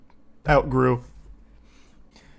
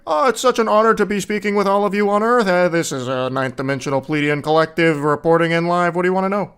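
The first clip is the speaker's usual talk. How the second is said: over-honored, sing-song alien channeler, higher; mock channeler; 4 semitones higher, 6 dB louder than usual. Mocking channelers who gush to Earth in a lofty mock voice. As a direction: ham up a gushing cosmic messenger. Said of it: "It's always like".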